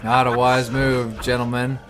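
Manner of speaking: laughing. Real, not acted. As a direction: chuckle through it. Laughing at enemies.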